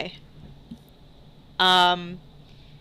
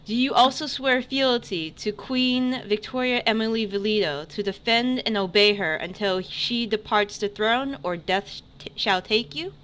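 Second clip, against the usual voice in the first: herald proclamation; 2 semitones higher than usual. Acted. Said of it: "he's the herald".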